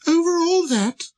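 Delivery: very high, marvelling question; incredulous little prince. Acted. Prince marvelling at the king's domain, very high and amazed. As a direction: ask it in a tiny astonished voice. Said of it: "asked the little prince".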